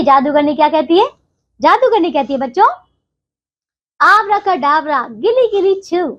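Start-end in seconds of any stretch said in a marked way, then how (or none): 4.0-6.1 magic spell. Acted. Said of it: "इस प्रकार का वो एक मंत्र पढ़ती है".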